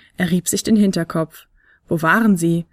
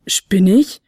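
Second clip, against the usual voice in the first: amazed; 4 dB louder than usual. Acted. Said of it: "staunte der kleine Flötenspieler".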